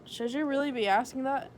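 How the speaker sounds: sassy. Acted. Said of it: "I sassed".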